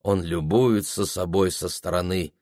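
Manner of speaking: usual speaking voice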